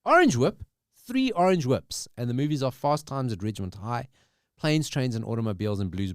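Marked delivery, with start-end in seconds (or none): 0.1-2.1 movie quote. Acted. Rereading the quote.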